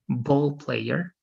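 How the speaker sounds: "ball player" stressed on BALL; first-syllable stress. Shown as a demonstration. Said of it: "stress the first syllable".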